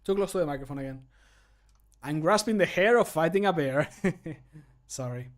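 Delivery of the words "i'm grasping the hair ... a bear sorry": punning line trailing into a sheepish laugh; pun, laugh, sorry. Acted. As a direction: laugh at your own pun before apologizing. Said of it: "he laughs and then says sorry".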